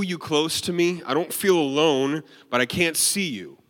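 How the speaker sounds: restrained mock yelling at God; retold angry complaint. Man yelling at God in his car, retold angry complaint. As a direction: replay an exasperated prayer with some force. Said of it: "I was yelling at God in my car".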